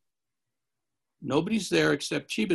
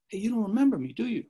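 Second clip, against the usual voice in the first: sly stranger; 7 semitones higher, faster than usual. Retold or imitated. Stranger voiced smiling.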